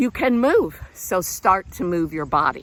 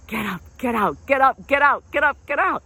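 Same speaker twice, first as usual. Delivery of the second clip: mantra building up; 4 semitones higher than usual. Shown as a demonstration. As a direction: build it into a rallying cry. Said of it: "you just say it over and over".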